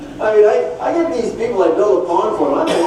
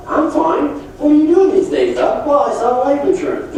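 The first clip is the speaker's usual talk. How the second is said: upbeat chat; 9 semitones higher, 4 dB louder than usual. Retold or imitated. Doug chatting to Joe.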